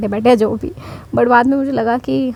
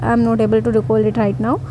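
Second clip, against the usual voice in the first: slow, polite, calm demo line; slow polite apology; much slower than usual. Shown as a demonstration. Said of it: "simple सी बात है".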